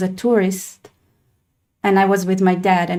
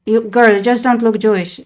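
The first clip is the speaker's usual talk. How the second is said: emphatic verdict; 2 semitones higher, 4 dB louder, faster than usual. Real, not acted. Verdict said twice.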